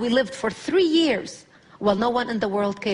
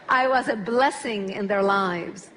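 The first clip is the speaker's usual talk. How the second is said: laughing; 3 semitones lower, slower than usual. Real, not acted. Laughs at own joke.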